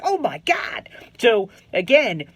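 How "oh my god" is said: thrilled whisper. Retold or imitated. Inner thrill after fooling coach.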